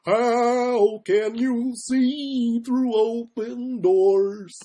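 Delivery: slow, lightly silly sung voice; goofy voice. Pretend. Singer answering viewers, a mild goofy singing voice. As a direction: ham it up goofily. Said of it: "goofy voice".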